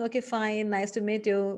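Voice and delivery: level, quick first-meeting pleasantry; casual wave-off. Shown as a demonstration. Teacher showing a first-meeting goodbye, casual wave-off. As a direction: say it evenly, as a passing courtesy. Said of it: "when you want to wave off".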